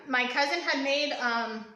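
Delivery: talking with hair in mouth. Real, not acted. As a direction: speak past hair caught in the mouth. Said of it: "I have hair in my mouth".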